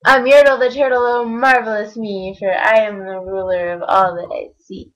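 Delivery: proud, booming turtle king; lightly voiced boastful Yertle. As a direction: crow about your own greatness. Yertle boasting from his throne.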